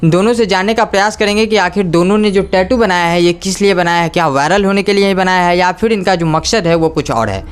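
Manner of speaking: brisk reporter's opening address to camera; news anchor intro. Acted. Reporter opens the channel segment. (न्यूज़ reporter का परिचय)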